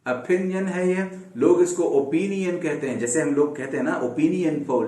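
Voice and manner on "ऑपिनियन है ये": ऑपिनियन with an aspirated ph sound; opinion said right. Shown as a demonstration. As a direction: say ऑपिनियन as o-phi-ni-yan. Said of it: "फ का sound".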